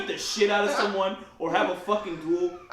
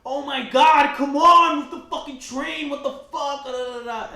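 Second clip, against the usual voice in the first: annoyed passenger; 7 semitones higher, 6 dB louder, slower than usual. Retold or imitated. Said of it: "this guy is like".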